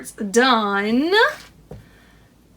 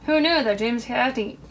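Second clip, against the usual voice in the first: pins in mouth. Real, not acted. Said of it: "this is really hard to talk".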